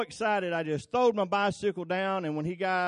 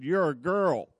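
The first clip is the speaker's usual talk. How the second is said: in-your-face taunt; 4 dB louder than usual. Retold or imitated. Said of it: "He got right in my face".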